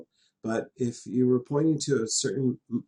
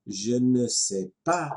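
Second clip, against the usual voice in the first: slow model; slower than usual. Shown as a demonstration. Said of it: "if we add the negative".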